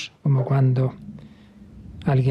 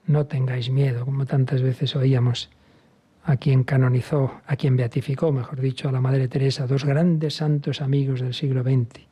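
ordinary delivery

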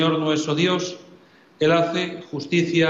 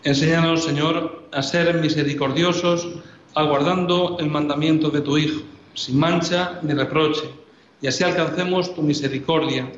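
prayer. Acted.

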